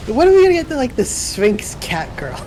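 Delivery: excited. Real, not acted. Excited question.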